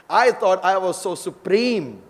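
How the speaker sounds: acted dismay. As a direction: play a boaster taken aback, drawn out. Humbled Hiranyakashipu in retelling.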